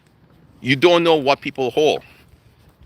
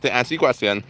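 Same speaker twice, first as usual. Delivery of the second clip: talking while chewing gum; words round a piece of gum; 2 semitones lower than usual. Real, not acted. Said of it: "I'm chewing gum".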